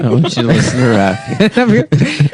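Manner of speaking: mock mom voice. Mock parent voice to child.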